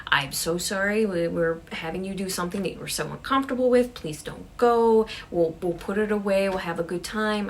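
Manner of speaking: acted appeal, trying to talk someone round; pleading apology. Pam begging upset Sarah to stay, apologetic. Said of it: "tries to apologize and say".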